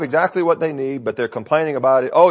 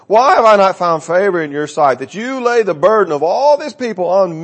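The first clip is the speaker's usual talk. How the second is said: anguished Moses; 6 semitones higher, 4 dB louder than usual. Acted. Reading Moses' anguished complaint.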